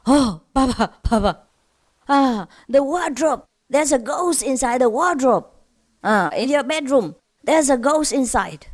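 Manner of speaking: put-on tug at papa as an excited child; child's voice. Five-year-old son tells papa about a ghost, excited child voice. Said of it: "five-year-old son".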